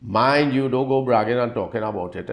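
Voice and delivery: mildly stern warning. Acted. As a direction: caution firmly, pressing the opening words. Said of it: "Jesus sternly said to him".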